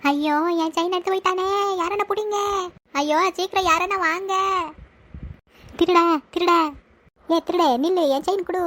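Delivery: high, distressed calling out after a thief; panicked cry for help. Acted. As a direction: wail for someone to catch him. Robbed grandmother calls out for help.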